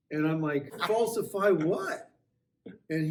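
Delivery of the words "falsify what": higher, drawn-out incredulous question; acted disbelief. Driver answers a falsification charge, acted incredulity. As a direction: play being baffled by the accusation, pitch climbing.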